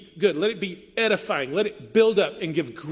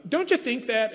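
leading question; 6 semitones higher than usual. Retold or imitated. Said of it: "this is the one that".

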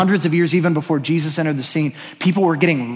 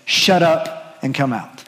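blunt command; slower than usual. Retold or imitated. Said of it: "what Jesus does is basically in Greek say".

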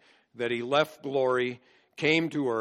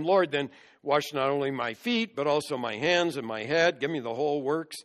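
a touch of eager overcorrection; mildly gushing, asking for everything; overboard eagerness; 3 semitones higher, 4 dB louder than usual. Retold or imitated. Peter begging Jesus to wash all of him, mildly eager. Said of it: "Peter goes overboard the other way".

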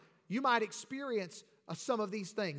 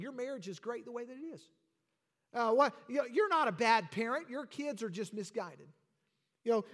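dismissive friend; 4 semitones higher than usual. Retold or imitated. Mimics people dismissing your need.

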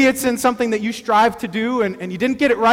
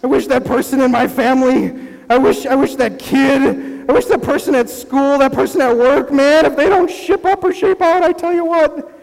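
mock exasperated; 2 semitones higher than usual. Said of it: "sometimes we're like".

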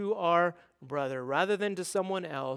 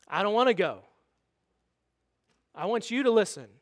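mildly insistent refusal, a bit higher; reluctant protest; 3 semitones higher, faster than usual. Acted. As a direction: push back like someone who won't go. Acted reluctant friend answering back.

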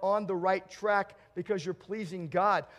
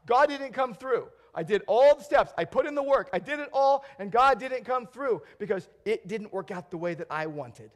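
indignant complaint; 5 dB louder than usual. Acted. Voicing a believer disputing with God.

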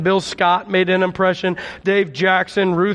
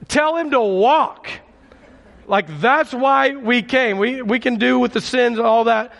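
lightly voiced baffled friend, higher; a mild protest from the friends, pitched up; confused friends; 4 semitones higher than usual. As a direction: friends of the man on the mat objecting to Jesus, mild mock dismay. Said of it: "They're like".

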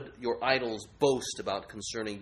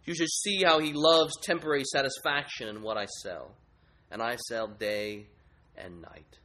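lust idol. Acted. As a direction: purr it like a temptress. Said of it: "she says".

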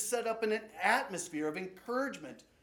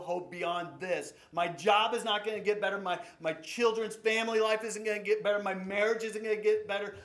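fatalistic; 2 semitones higher, 5 dB louder than usual. Retold or imitated. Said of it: "fatalistic kind of point of view".

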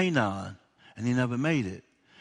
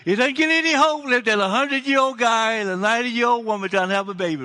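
emphatic exclaim; 9 semitones higher, 7 dB louder than usual. Real, not acted. Preacher emphatic, amused.

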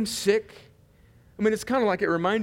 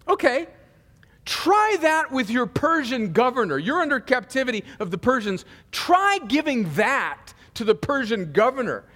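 sarcastic God; 4 semitones higher than usual. Retold or imitated. God mocking priests' offering, sarcastic. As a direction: dare them, dripping sarcasm. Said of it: "God is being sarcastic here".

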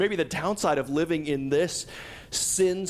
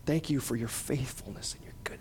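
hushed whisper of thanks; whispered prayer; 2 semitones lower, 7 dB quieter than usual. Real, not acted. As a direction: breathe the thanks quietly.

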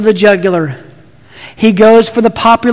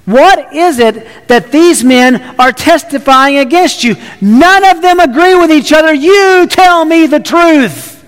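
demanding high priest; 5 semitones higher than usual. Acted. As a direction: lean on the silent prisoner, demand an answer. High priest interrogating Jesus.

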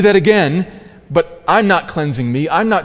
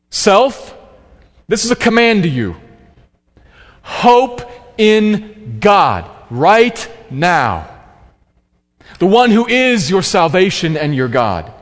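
louder, firm command to yourself; commanding self-talk; 3 semitones higher, 4 dB louder, slower than usual. Acted. Psalmist ordering himself to hope, raised and firm. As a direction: grab yourself by the lapels. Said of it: "taking himself by his lapels".

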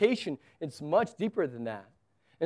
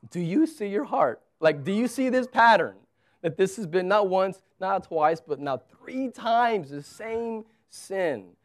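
retold pleading, raised and emphatic; fatherly confrontation; 3 semitones higher, 4 dB louder than usual. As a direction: press the child as a concerned father, voice lifted. Father confronting his sobbing daughter.

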